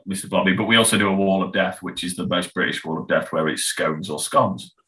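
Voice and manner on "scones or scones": "scones" first rhyming with stones, then with dons; two rival pronunciations. Shown as a demonstration. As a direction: say "scones" both ways, long O then short O. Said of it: "you know, stone".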